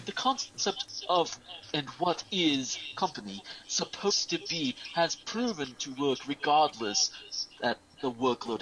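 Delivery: grave farewell address to the company; lightly voiced solemn commander; solemn leader's speech. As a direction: read it like a stern captain parting ways. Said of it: "I'm just going to go with the first one".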